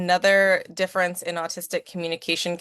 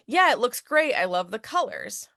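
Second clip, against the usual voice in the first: enthusiastic praise; 4 semitones higher than usual. Shown as a demonstration. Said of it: "responding to the subtext".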